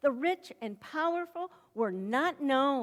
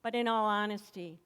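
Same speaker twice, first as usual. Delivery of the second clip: ordinary delivery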